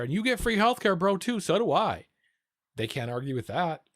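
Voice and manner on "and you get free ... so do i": retold argument. Arguing with a rightoid.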